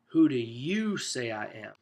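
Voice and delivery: "you" drawn out and leaned on; slow question, underline the word "you"; stress on YOU. Shown as a demonstration. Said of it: "there's an emphatic part of this sentence".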